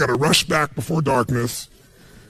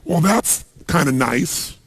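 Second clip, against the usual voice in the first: unimpressed; slower than usual. Retold or imitated. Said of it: "they say".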